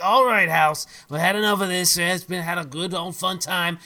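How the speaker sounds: loud declaration to the house; shouting out. Acted. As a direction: address the whole house boldly. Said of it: "declare, shout out to the house".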